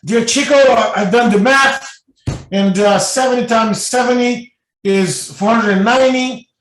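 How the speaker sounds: a fed-up wife venting her anger; loud, indignant outburst to the medium; furious complaint. Retold or imitated. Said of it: "and she was furious".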